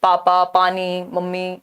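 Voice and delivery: पापा, पानी, मम्मी said low and level, one by one; low, evenly spaced पापा, पानी, मम्मी; child's first words. Shown as a demonstration. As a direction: list पापा, पानी, मम्मी in an even monotone. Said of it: "जब बच्चा".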